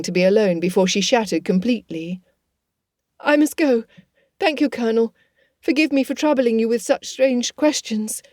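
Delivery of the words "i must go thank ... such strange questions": put-on slightly higher, hurried young lady; a hint of a flustered gentlewoman excusing herself; lightly voiced distressed young woman. Elizabeth hurrying away from the Colonel, lightly higher.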